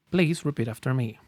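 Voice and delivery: ordinary delivery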